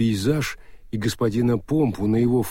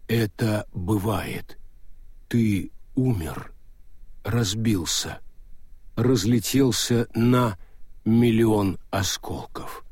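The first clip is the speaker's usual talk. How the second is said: Death's voice; slower than usual. Acted. Death speaks to golem.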